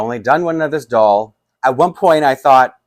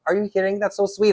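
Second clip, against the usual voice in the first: much higher, delighted and touched; touched best friend; 11 semitones higher than usual. Retold or imitated. Best friend learning the doll's name, high and delighted. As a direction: gush like you just got a sweet surprise.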